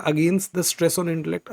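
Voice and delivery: slow, with the middle cut out; slow simplified reading. Shown as a demonstration. Teacher rereads the simplified line for students. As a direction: read the shortened line slowly. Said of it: "तो इसको आसान कर देते हैं".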